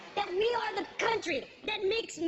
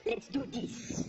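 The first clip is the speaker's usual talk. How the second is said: slow rally; 8 semitones lower, 4 dB quieter, much slower than usual. Acted. Pirate captain rallying his crew.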